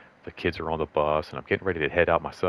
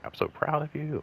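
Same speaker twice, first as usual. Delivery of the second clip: higher, softly gushing retold praise; imitating proud supervisor; 10 semitones higher, 4 dB quieter than usual. Supervisor praises a departing colleague, higher-pitched proud imitation.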